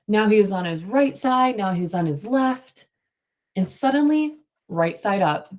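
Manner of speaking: reading a picture book to the class, steady and clear; story read-aloud. Acted. Teacher reading a storybook to her class. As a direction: tell it like a storybook for kids.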